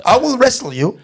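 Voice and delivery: imitating an earnest challenger; mock threat. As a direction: spell out a silly ultimatum, drawn out. Retold threat from a passenger.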